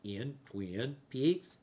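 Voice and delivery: slow, stretched, oddly reversed-sounding words; backwards speech. Shown as a demonstration. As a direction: talk like you're played in reverse. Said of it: "Sounds like I'm talking backwards".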